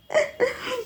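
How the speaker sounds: a sudden high burst of giggling; high giggle. Real, not acted. Reader giggling at her own steamy scenario, high burst of laughter. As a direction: giggle out, a little embarrassed.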